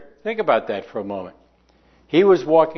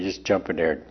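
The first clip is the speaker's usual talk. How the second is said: great aunt's coaxing; 6 semitones lower than usual. Retold or imitated. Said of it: "my great aunt Rosie, she would say".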